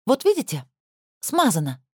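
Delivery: торжествующе, высоко на «Вот видите»; с победным возгласом; восклицание. A narrator's reading. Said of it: "воскликнула Надя". (торжествующее восклицание)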